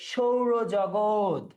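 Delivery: সৌরজগৎ drawn out as "shou-ro-jogot"; palatal sh. Shown as a demonstration. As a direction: slowly start সৌরজগৎ with sh. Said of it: "তালব্য শ উচ্চারণ হচ্ছে".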